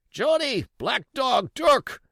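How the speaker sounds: high desperate cries for his mates; blind pirate crying out. A narrator's reading. Blind Pugh calling after his deserting crew, high desperate cries. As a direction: call out wildly, abandoned and groping.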